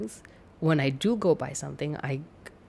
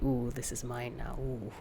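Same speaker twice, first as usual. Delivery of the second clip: mock savoring coo; 6 semitones lower, 10 dB quieter than usual. Savoring new purchase.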